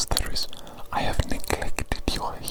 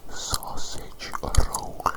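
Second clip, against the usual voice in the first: test word whisper; much slower than usual. Shown as a demonstration. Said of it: "I'm going to whisper a word into your ear".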